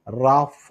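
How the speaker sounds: റാഫ as one measured word, raa-fah; said joined together. Shown as a demonstration. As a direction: say റാഫ clearly for learners. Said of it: "ഒരുമിച്ച് പറയുമ്പോൾ". (റാഫ ചേർത്ത്, വ്യക്തമായി)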